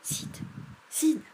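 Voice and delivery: calls his brother, rising to a shout; calling out. A narrator's reading. Tom calls his sleeping brother Sid, loud call. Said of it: "Il appela".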